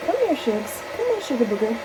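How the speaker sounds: high cooing call to the bird. Real, not acted. Owner calling her baby bird in a high coo. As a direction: coax the bird over in a high sing-song.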